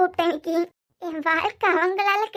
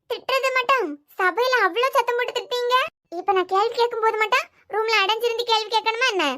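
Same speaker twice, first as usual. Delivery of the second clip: higher pitched, heated accusation; tearful angry challenge; 3 semitones higher than usual. Acted. Wife to husband refusing to talk in the room, pitched-up angry retort. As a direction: throw his public scolding back at him.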